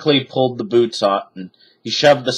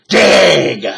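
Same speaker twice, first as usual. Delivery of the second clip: shouted; 4 semitones higher, 7 dB louder than usual. A narrator's reading. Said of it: "shouted Captain Bones".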